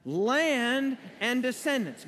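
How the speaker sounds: slow, emphatic group chant. Shown as a demonstration. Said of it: "this time with more enthusiasm".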